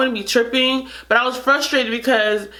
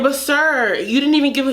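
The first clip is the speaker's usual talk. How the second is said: frustrated protest; 6 semitones higher than usual. Retold or imitated. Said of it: "And I'm just saying".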